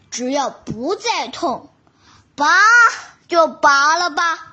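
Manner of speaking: speaking out of the side of the mouth; lopsided, resigned tiger; crooked mouth. Acted. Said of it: "大老虎歪着嘴说".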